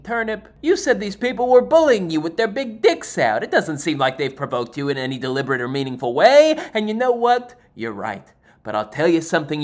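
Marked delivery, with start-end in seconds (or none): 0.0-6.5 raised, louder voice of a doubting listener; a hint of an indignant listener; mock audience objection. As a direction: play the skeptic calling him out. Imagined heckler objects.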